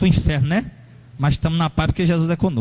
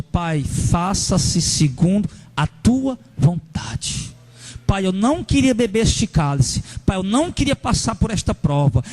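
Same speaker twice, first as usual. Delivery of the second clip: slow, surrendered prayer to the Father; humble prayer; slower than usual. Acted. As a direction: pray it slowly, yielding. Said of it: "como Jesus nos ensinou".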